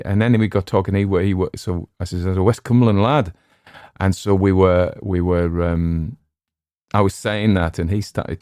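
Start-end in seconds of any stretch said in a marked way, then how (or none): 2.2-3.3 a light put-on West Cumbrian accent; Cumbrian dialect. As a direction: claim your roots in a Cumbrian voice. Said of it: "my dialect became stronger".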